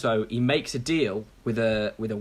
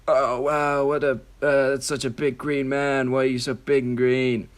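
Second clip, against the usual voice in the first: badly faked, drifts toward Donald Trump; hammed-up wondering celebrity voice; Vin Diesel. Action star meets a big green man, badly imitated wonder. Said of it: "that was more Donald Trump".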